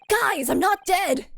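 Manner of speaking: startled exclaim. Retold or imitated. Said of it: "the guy wakes up like".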